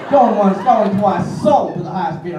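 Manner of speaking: a hint of a Southern auctioneer; mock Southern auctioneer. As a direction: rattle it off like a country auctioneer, lightly. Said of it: "like an auctioneer".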